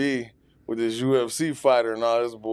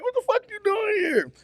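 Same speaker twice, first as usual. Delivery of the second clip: lightly voiced rapper. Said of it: "He's like".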